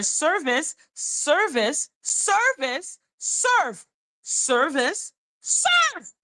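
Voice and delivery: rising squeaky repetition; mocking singsong. Mocking the court filing's wording in a rising singsong. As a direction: repeat the word climbing up in pitch.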